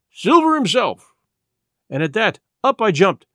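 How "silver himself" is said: high-pitched, drawn-out exclamation of surprise; cry of surprise. A narrator's reading. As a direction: cry it out in astonishment, slowly. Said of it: "with a cry of surprise".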